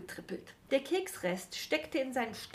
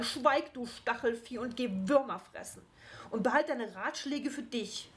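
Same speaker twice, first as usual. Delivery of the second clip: higher, sharp scolding; angry rebuke; 4 semitones higher than usual. Acted. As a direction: chase him off with your anger. Gnome keeps berating the hedgehog.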